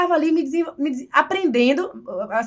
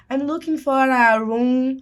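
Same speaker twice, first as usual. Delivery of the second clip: careful slow English; much slower than usual. Retold or imitated. Ninguém entendia.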